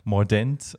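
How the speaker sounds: Mordent said as the German word; German pronunciation. Shown as a demonstration. Violinist giving host the German term, German pronunciation. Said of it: "give us the German".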